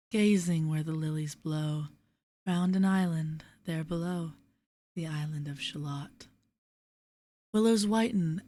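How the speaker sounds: measured, lilting verse with pauses at line ends. Acted. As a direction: read the poem gently, letting refrains fall away. Reads a poem aloud.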